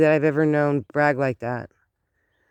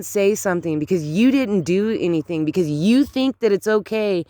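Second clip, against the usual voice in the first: higher-pitched telling-off, leaning on each accusation; indignant scolding; 5 semitones higher than usual. Acted. Acted telling-off of the bystanders.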